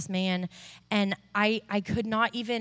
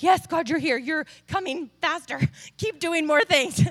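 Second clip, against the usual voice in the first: higher, laughing, urgent encouragement; excited praise; 6 semitones higher, 3 dB louder than usual. Retold or imitated. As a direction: cheer him on, nearly laughing. Cheering on God during healing.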